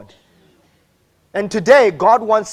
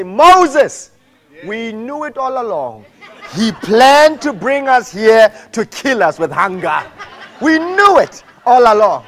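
laughing mock complaint; hammed-up grumble to Moses; mock grumbling. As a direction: play the whining Israelites half-laughing. Voicing grumbling Israelites.

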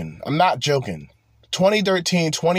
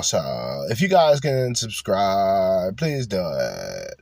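mumbling sad guy; 6 semitones lower than usual. Retold or imitated. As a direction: sink down low and let the words fade like a sad streamer. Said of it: "you could barely hear him".

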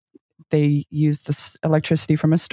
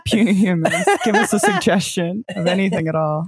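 giant alien booming voice; 3 semitones higher than usual. Pretend. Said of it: "my homunculus brother".

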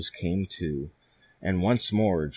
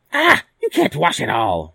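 loud, high scornful hag; old troll hag; 6 semitones higher, 8 dB louder than usual. Acted. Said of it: "said the old troll hag".

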